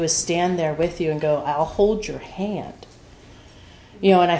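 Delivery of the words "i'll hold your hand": soft, slow reassurance; tender comfort. Retold or imitated. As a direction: say it slowly and softly. Comforting someone in hell.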